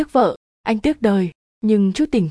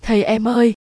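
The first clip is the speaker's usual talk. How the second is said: a mildly voiced wife calling sweetly; lightly sweeten the call, honey-sweet but not overdone; sugary sweet call; 2 semitones higher than usual. A narrator's reading. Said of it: "Cái thứ tiếng ngọt như đường".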